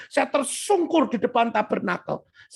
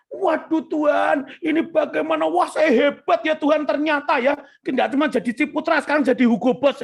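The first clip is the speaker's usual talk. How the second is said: higher, excited retold boasting; boastful self-mockery; 4 semitones higher than usual. Young winner brags to God about himself, boastful. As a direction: crow proudly, mocking your younger self. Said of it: "Itu masih sombong seperti itu".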